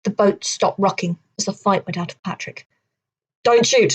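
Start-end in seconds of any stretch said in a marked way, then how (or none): 3.4-3.9 mildly anxious plea; a touch of worry in the plea. Acted. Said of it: "he said anxiously".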